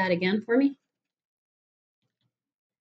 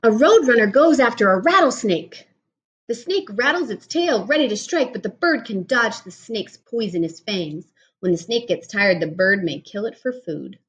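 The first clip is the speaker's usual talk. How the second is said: put-on reading to children. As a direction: clear storybook reading voice. Reads picture book aloud.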